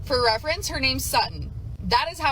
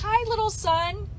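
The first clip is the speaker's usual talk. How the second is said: put-on higher, slower, sugary greeting to a baby; sweet high greeting; 9 semitones higher, slower than usual. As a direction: coo it to a baby, slowly. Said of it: "she goes".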